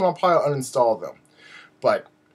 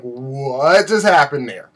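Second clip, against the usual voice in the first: baffled reaction; 3 dB louder, slower than usual. Retold or imitated. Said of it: "and I'm like".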